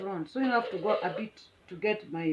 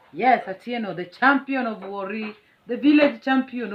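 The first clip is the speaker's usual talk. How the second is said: mock boast; 3 semitones higher, 5 dB louder than usual. Boasting self as village champion.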